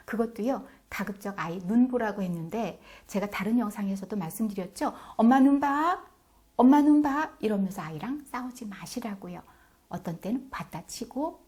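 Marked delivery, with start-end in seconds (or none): 5.1-7.3 loud, high insistent mother; firm repeated order, raised voice; stern demand. Shown as a demonstration. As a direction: demand it like a fed-up mom. Mom demanding eye contact.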